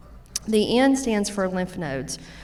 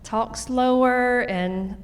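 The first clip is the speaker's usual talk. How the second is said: deliberately slow, stretched words; slow it right down as she says it; 5 semitones higher, much slower than usual. Shown as a demonstration. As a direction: speaker stretching the words to show talking slower. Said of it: "I try to talk slower".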